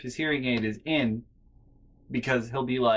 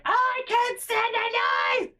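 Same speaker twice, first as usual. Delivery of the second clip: much higher, louder mock old woman; high, louder imitation of the grandma nagging; shrill grandma voice; 7 dB louder, much slower than usual. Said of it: "she'll be like".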